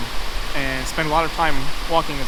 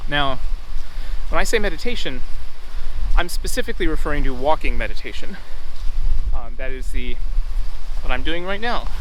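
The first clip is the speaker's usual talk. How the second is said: raised voice over the wind; shouting over wind; 5 dB louder than usual. Real, not acted. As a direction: project over the wind noise.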